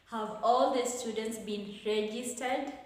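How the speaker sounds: yes-no question rising on "registered"; rising question intonation. Shown as a demonstration. Teacher reads a yes-no question example, with rising tone. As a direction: lift "registered" at the end to ask. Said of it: "our tone of voice is also".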